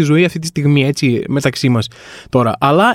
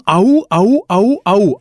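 Spartan war cry; 3 semitones higher, much slower than usual. Retold or imitated. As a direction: chant it like a row of Spartans. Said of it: "αρχίζουν όλοι μαζί να φωνάζουν". (μιμείται την κραυγή «Αού, αού» των Σπαρτιατών)

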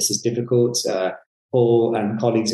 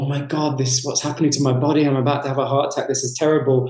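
higher, hammed-up panicked inner voice; mock panic; 3 semitones higher, faster than usual. Gym beginner out of breath, imagining a heart attack, mock panic. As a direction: play the gym newbie sure his heart is failing.

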